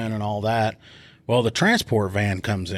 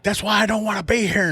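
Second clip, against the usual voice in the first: much higher, whining voice of the crying prisoner; whiny suspect; 11 semitones higher than usual. Retold or imitated. Prisoner whining back at the woman mocking him. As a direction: whine it like a big baby. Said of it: "he's like".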